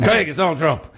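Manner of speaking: half-committed impersonation on a phone call; Donald Trump. Acted. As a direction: try a loose celebrity impersonation, pitched slightly up. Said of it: "this is my Trump impression".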